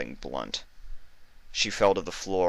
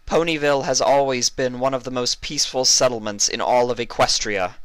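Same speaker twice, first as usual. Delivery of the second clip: high, stately royal proclamation; regal princess address; 7 semitones higher, 5 dB louder than usual. Acted. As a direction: address the whole crowd like a queen. Celestia's speech to crowd.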